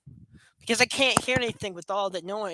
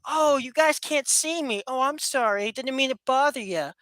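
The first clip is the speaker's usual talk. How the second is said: sarcastic; 3 semitones higher than usual. Acted. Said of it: "pardon me if I'm being sarcastic".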